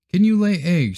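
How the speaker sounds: high, sharp questioning hen. Acted. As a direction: ask it like a fussy hen. Hen asks the duckling.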